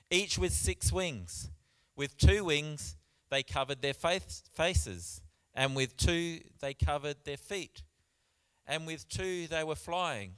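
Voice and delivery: loud, measured Bible reading; scripture reading. Acted. Preacher reading about the seraphs to church, proclaiming. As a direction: proclaim the verse to the room.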